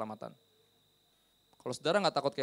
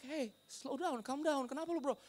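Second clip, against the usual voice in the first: retold calming down; 12 semitones higher, 4 dB quieter than usual. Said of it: "Gua bilang".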